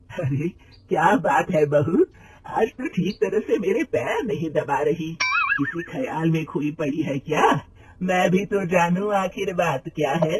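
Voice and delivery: a lightly voiced elderly mother-in-law, slow and probing. Mother-in-law questioning her daughter-in-law, slow and lightly voiced. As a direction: ask your daughter-in-law what's wrong, unhurried.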